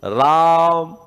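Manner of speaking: राम with the final म clipped short, half-sounded; half-m Ram. Shown as a demonstration. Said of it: "तो कैसे बोलेंगे राम को".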